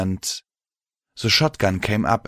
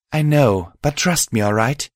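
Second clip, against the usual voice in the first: tag; 5 semitones higher than usual. Acted. Mare reassures the worried host.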